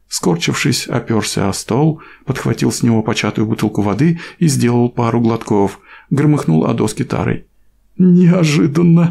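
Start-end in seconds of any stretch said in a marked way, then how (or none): 8.0-9.1 high, squeezed-out word, forced out after laughing. After a gasping laughing fit, a young man finally gets words out: squeezed out after laughing. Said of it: "наконец выдавил из себя Лиам".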